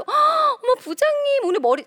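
high, loud gushing at a boss; mock gushing compliment; fawning admiration. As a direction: put on exaggerated delight to flatter. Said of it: "내가 저 사람을 좋아하지 않아도".

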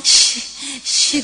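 sharp hissed huff through the teeth; mock huffing like a cross child; imitated angry huffing. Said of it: "막 씩씩거리고 들어와요".

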